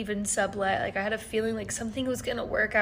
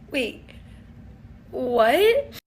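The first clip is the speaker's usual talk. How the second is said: shocked; 6 dB louder than usual. Real, not acted. Shocked at the cash prize.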